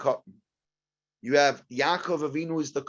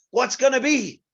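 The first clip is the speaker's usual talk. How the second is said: high, louder wail of worry; worried outcry; 10 semitones higher, 6 dB louder than usual. Retold or imitated. New father wailing about his baby, high and louder. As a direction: throw up your hands in despair.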